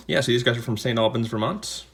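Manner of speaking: ordinary talk, nothing marked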